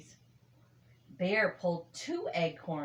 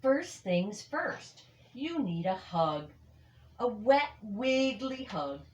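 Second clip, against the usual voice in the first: playful bear; 4 semitones higher than usual. Acted. Bear offers hug, playful.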